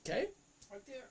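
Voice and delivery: high, eager emphasis on the date; excited. Real, not acted. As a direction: pitch it up with excitement. Stressing the expiry date, excited.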